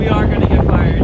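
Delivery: shouting over a loud engine; yelling over helicopter noise. Acted. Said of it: "It's very loud in here".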